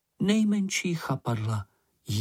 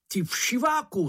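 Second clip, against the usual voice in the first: much higher mock roar; roaring insult; 11 semitones higher than usual. A narrator's reading. Moomin roars at the bush while slashing a tentacle, mock roar. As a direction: bellow it as you strike. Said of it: "zařval Mumínek".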